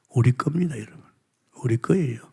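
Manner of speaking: soft whispered claim. Real, not acted. Preacher whispering to the congregation. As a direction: breathe it like a secret.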